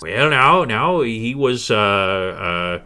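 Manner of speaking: lightly voiced crone, stalling; faltering old-woman voice; hesitating old woman. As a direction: stall as the old healer gathers her thoughts. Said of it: "trying to gather her thoughts".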